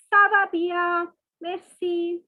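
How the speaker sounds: slow Ça va bien, Merci as meh-see; modelled French reply. Shown as a demonstration. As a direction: model the answer for the class.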